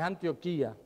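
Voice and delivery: "Antioquía" with the accent on the í; stress on the I. Shown as a demonstration. Preacher correcting how the city is said, stress on the í of "Antioquía". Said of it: "con acento en la I".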